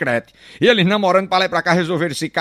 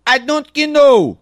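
mock gringa English; 7 semitones higher, 5 dB louder, much slower than usual. Gringa speaking broken English.

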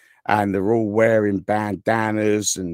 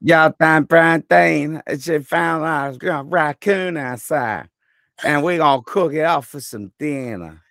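redneck American; 6 semitones higher than usual. Shown as a demonstration. Brit showing friends his bad American, hammed-up redneck. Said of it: "like, Texas? Redneck American".

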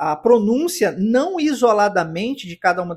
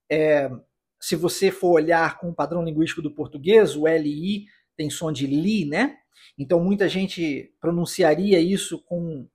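ordinary talk, nothing marked

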